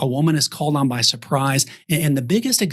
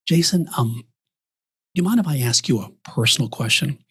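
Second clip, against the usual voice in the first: hesitant, careful lead-in to a question; considered tone; faster than usual. Shown as a demonstration. Advisor asking client permission for a personal question, considered tone. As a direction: gently ease into asking, with pauses. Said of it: "the way even your tone".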